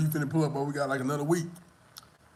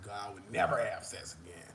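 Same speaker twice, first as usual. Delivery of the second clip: low, soft mock prayer; retold begging; 4 semitones lower, 7 dB quieter than usual. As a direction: plead with God under your breath, re-enacting it. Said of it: "I was literally begging God".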